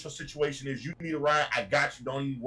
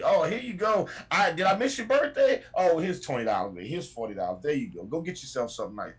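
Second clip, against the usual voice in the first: doting grandmother. Retold or imitated. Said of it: "your grandmother who's like always happy".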